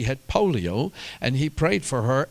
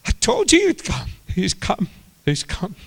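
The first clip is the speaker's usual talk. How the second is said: high, loud excited cry of news; triumphant high-pitched shout; shouting in the village; 9 semitones higher, 6 dB louder than usual. Acted. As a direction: call it out to the whole village. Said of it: "she's shouting in the village".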